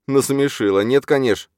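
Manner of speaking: high, loud, scornful amusement; amused outburst. A narrator's reading. Юрген laughs off Чарна's claim of rivalry, amused. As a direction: burst out as if laughing it off. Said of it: "Юрген расхохотался".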